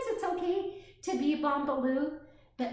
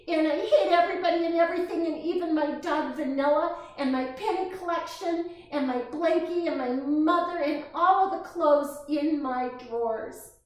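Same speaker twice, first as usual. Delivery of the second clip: angry; 4 semitones higher, 5 dB louder, faster than usual. Acted. Tantrum list of hated things.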